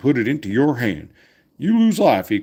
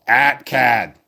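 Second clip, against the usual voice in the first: put-on Boston accent; 4 dB louder than usual. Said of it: "if you're from Boston because of that".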